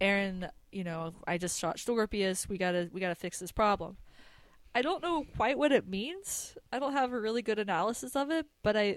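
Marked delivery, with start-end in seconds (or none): none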